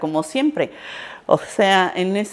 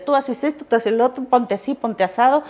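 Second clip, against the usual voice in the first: lightly mimicked teacher giving orders; a hint of a bossy director; 4 semitones higher than usual. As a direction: hand out orders like the boss. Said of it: "era la directora la que decía".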